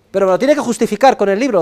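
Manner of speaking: ordinary talk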